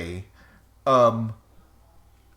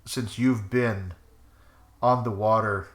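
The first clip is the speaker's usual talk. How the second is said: game master narration; 2 semitones lower than usual. Acted. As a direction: draw them into the mood. GM sets the scene.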